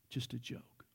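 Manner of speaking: very soft, low throwaway aside; quiet aside. Real, not acted. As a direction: drop right down, almost to a whisper. Quiet aside after his joke.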